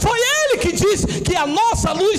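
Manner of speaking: insistent, rising sermon litany; fervent preaching. Real, not acted. Preacher exalts God's promise over man's, fervent preaching. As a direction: hammer each repeated phrase, building.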